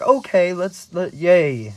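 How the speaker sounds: high, loud cheery agreement; hammed-up childlike glee; mock eagerness. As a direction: burst out like an excited elf. Buddy cheerfully agrees in retelling.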